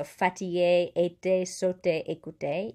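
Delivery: FATIGUÉ, ÉTÉ, SAUTÉ, ÉCOUTÉ with each é like "ay" in hey; accent aigu E. Shown as a demonstration. Teacher listing examples, accent aigu E. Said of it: "sounds like the A in hey".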